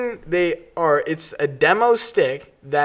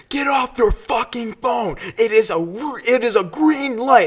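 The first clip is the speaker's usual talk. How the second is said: mock angry driver; 7 semitones higher than usual. A stranger yelling at her from his car, mock angry. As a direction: lash out at the driver on the phone. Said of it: "He's screaming at me".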